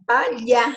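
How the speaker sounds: palha said slowly as spoken; slow pronunciation demo. Shown as a demonstration. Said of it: "na hora que eu vou pronunciar".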